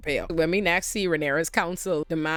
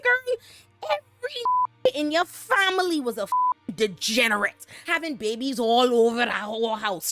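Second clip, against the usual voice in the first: much higher, sassy put-on voice; exasperated mock Mysaria; 5 semitones higher than usual. Recapper voicing Mysaria schooling Rhaenyra, much higher sass. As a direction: squeal "Girl" like a fed-up friend.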